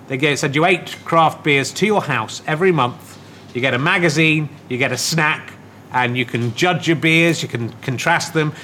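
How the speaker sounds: low, casual sponsor read; podcast ad read. Real, not acted. Host pitching beer deal to listeners, casual ad read.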